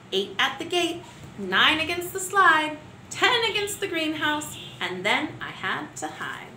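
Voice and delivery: rhythmic counting poem, building as the numbers climb; poem for children. Acted. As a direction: count each kick with growing energy. Teacher reads counting poem.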